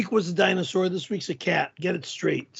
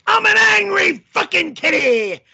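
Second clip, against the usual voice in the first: louder, higher grumpy declaration; mock angry kitty; 9 semitones higher, 6 dB louder than usual. In cat costume for the viewer, mock angry yell. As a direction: snarl it like a furious cat. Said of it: "angry kitty".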